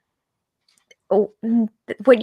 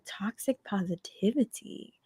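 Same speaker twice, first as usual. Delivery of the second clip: soft, confused rising question; puzzled question; 9 dB quieter than usual. Retold or imitated. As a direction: ask it back, baffled. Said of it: "I was like".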